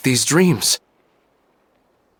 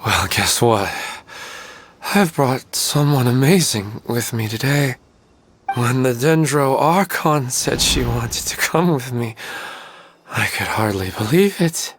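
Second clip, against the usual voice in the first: tender. Acted. Talks to wife at her place.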